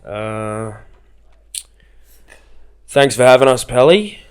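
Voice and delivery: loud, high, holding back tears; a tearful farewell speech pushed out loud; a choked-up thank-you to the boys. Retold or imitated. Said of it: "I'm on the verge of tears".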